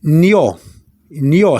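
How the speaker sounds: "Nio" said twice as nyo, separately; "Nio", n melting into yo, repeated for learners; ñ plus O sound. Shown as a demonstration. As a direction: model "Nio" as one gliding syllable. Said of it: "the sound will be".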